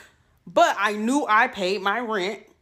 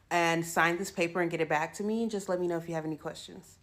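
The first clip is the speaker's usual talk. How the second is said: lower, softer, prim office voice; mock prim manager; 5 semitones lower, 6 dB quieter than usual. Quoting the property manager's email, softer prim mock voice. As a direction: read the manager's email in a flat polite voice. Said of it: "She said".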